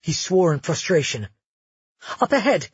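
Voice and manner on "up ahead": high, louder call to Magnus; shout. A narrator's reading. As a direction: call out urgently up the street. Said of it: "Cleo shouted".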